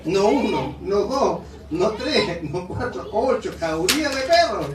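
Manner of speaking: laughing through the list, real amusement. Real, not acted. Preacher laughing about his wife's land full of dogs. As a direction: count the dogs off while cracking up.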